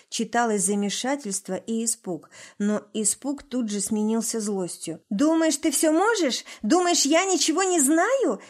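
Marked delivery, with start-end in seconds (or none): 5.1-8.4 high, loud shout with a breaking voice. A narrator's reading. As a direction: scream it with the voice cracking. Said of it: "закричал Глеб срывающимся голосом".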